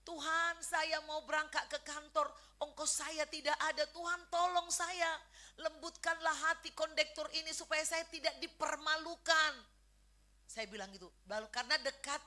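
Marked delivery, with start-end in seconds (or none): 0.0-9.5 re-enacted prayer on a raised, sustained pitch; earnest retold plea to God; acted pleading prayer. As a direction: plead with God as if praying it over. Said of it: "Lalu saya berdoa lagi".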